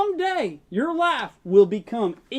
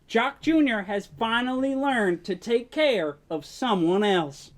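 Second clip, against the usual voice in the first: ominous hint; 3 semitones lower than usual. Acted. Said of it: "why did you say it like that".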